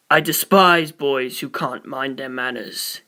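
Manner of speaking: stern disdain. A narrator's reading. Poochie scolds Naranchi.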